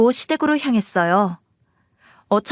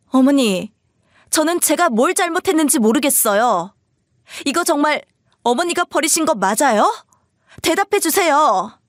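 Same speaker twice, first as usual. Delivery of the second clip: higher-pitched, hurt challenge; insistent daughter-in-law; 4 semitones higher than usual. Acted. Wife asking mother-in-law if she threw it away, insistent. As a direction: press her firmly for an answer.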